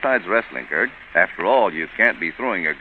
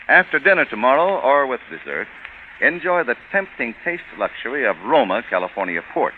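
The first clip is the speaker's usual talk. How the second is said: upbeat, polished sponsor pitch; radio ad read. Acted. Radio host pitching Roma Port to the listeners, in a polished ad read. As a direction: sell the port like a warm old-time radio announcer. Host turns to wine commercial.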